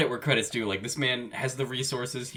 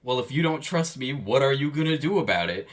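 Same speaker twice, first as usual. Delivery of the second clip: louder, indignant mimicry of her excuse; mock accusing; 4 semitones higher, 5 dB louder than usual. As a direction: throw her excuse back at her. Nested quote inside angry retelling.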